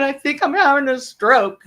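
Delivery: lightly acted hungover misery; almost crying. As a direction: insist weakly, as if near tears. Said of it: "almost crying, but I can't cry".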